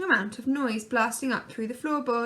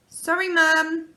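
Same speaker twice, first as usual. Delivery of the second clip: loud high apology; yelled; 5 semitones higher, 7 dB louder, slower than usual. A narrator's reading. Laura grabbing the baby, loud high apology. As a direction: call it out loud to mum. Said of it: "yelled Laura".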